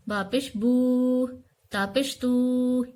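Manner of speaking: बू and तू dragged slow and long, the wrong way; wrong drawn vowel. Shown as a demonstration. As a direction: drag बू and तू out too long. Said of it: "ये नहीं पढ़ना है".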